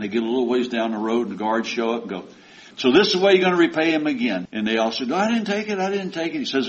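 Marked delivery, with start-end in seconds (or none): 2.8-4.5 quick, louder accusing challenge; mock accusation. Guards accusing brothers. 5.1-6.4 high, pleading denial; a touch of panicky denial; mock protest. Brothers denying theft.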